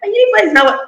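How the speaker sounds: a teenager whining to mommy about the uniform, mock tearful; mock crying teenager. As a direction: mimic a child wailing to mommy. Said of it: "they're crying".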